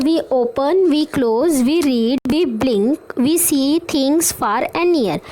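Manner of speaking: put-on slow, sing-song reading of a children's poem; slow rhyme reading. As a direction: read each line slowly for young learners. Teacher reads rhyme to kids. (बच्चों को धीरे-धीरे कविता पढ़कर सुनाना)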